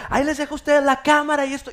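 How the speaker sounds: high, loud cheery imitation; happy mother. Mother handing over the camera, happily imitated. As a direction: call out gleefully as mom. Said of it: "mi mamá bien contenta".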